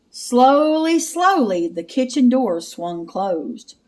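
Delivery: slow creepy suspense read; eerie drawn-out telling. Acted. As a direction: draw it out to build dread.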